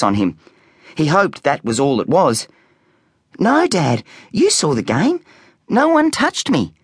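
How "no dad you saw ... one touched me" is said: put-on protesting boy. A narrator's reading.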